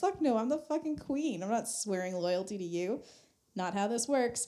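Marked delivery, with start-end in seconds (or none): 0.0-3.0 defiant queen. Retold or imitated. Queen refuses to swear loyalty.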